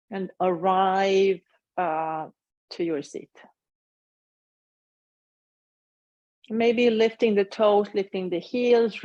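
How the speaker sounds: unhurried guiding voice with long pauses; measured meditation-teacher delivery; guided meditation. Acted. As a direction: lead them gently through a body scan, leaving space after each phrase. Leads a meditation.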